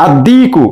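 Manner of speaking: "আদ-দিকু" with no L, doubled D; silent lam. Shown as a demonstration. Teacher showing an Arabic sun-letter word, lam silent in "আদ-দিকু". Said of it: "লাম কিন্তু উচ্চারণ হচ্ছে না".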